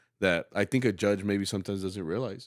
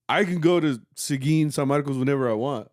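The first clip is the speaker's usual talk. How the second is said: higher, louder boast to students; retold lecture; 5 semitones higher, 6 dB louder than usual. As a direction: tell the kids off, raised voice. Director retells lecturing his students.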